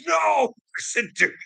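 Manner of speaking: high yelling plea to the cop; retold shout. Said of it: "I'm like".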